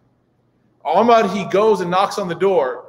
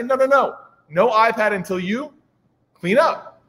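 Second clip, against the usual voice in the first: firm dad; 4 semitones higher than usual. Retold or imitated. Dad scolding son.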